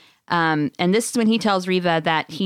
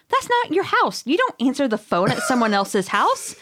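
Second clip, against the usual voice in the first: mock outrage; 7 semitones higher than usual. Real, not acted. Indignant rant about phone etiquette.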